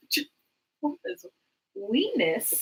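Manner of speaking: high slow giggly question; laughing. Real, not acted. Cohost misheard a word, giggling. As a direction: laugh through the words.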